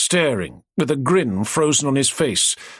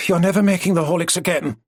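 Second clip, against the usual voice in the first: grumbling; 5 semitones higher, faster than usual. Acted. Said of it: "she grumbled".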